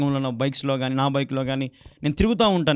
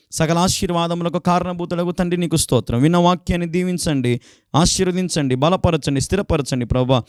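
prayer. Acted.

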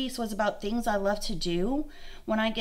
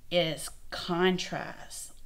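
slow contrast; 3 semitones lower, 4 dB quieter, much slower than usual. Shown as a demonstration. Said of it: "if I say the word contrast".

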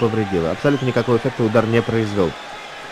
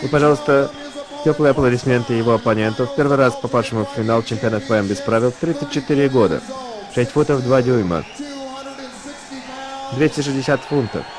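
ring announcer. Real, not acted. Announcing opponent.

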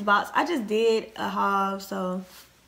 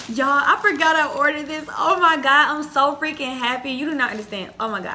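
gasping, high, loud burst of joy easing down; real overexcited squeal of surprise, settling gradually; too excited; 6 semitones higher, 7 dB louder than usual. Real, not acted. Vlogger rediscovers a forgotten order on camera, too excited. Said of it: "I just got too excited".

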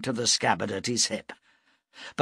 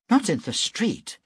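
protesting; 10 semitones higher than usual. A narrator's reading. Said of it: "Broom protested".

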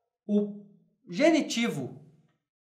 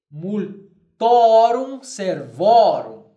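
very slow, louder multorum servorum; slow emphatic Latin model; 7 dB louder, much slower than usual. Shown as a demonstration. Teacher dictating Latin genitive plural to class. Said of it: "eu direi".

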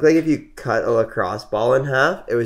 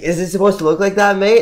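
imitating patroller; 8 semitones higher, 5 dB louder than usual. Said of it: "he's like".

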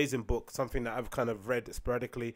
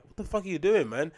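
mock disbelief; 4 semitones higher than usual. Acted reaction to bad gym form.

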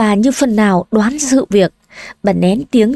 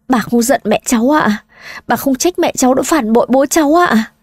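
lightly voiced young girl, higher; hurt questioning; 4 semitones higher than usual. Granddaughter asking grandmother, a hint of a hurt young girl. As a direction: ask grandma in disbelief, rising.

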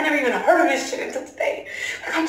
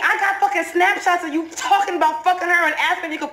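angry confrontation; 4 semitones higher than usual. Acted.

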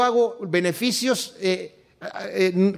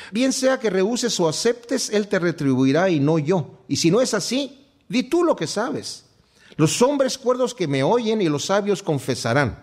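lectura bíblica solemne; 3 semitones higher than usual. Acted. Reads scripture aloud, raised. (lectura solemne y pausada de las Escrituras)

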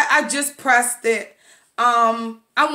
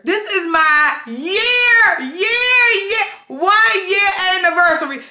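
tearing up; 4 semitones higher than usual. Real, not acted. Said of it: "I'm so nervous, y'all".

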